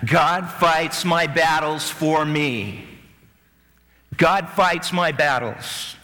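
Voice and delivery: very slow, every word spaced; slow group repetition. Shown as a demonstration. Congregation repeating the line slowly with the preacher. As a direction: drag it out as the crowd joins in. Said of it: "Say that".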